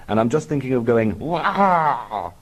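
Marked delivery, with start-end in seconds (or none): 1.2-2.3 higher mock child's wail; outward wail.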